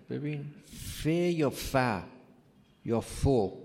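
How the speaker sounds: ف spelled out slowly, with each vowel sound; spelling out the vowels. Shown as a demonstration. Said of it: "اعرابش هم بزن". (تلفظ شمرده با حرکات)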